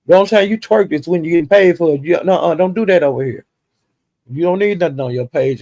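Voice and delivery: firm scolding. Retold or imitated. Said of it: "Judge Fifi was telling her".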